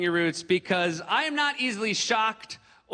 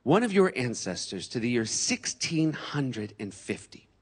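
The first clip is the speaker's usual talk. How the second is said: slow, drawn-out solemn host; Henry Louis Gates; slower than usual. Retold or imitated. Host revealing ancestry to the comic, slow and solemn. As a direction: lean in, slow and portentous, pausing. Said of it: "Henry Louis Gates looked at me and said".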